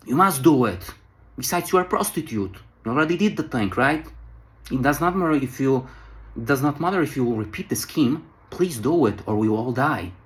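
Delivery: mildly insistent, retold pleading pressure; manipulative pressuring. French travellers pressing the prostitute to save them, manipulative pressuring. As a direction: lightly act out talking someone into it. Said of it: "They start to manipulate her".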